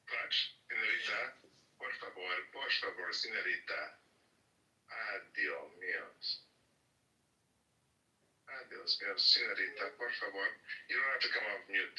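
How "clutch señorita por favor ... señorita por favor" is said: mock-beg in a fake Spanish accent. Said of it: "sorry for my bad accent".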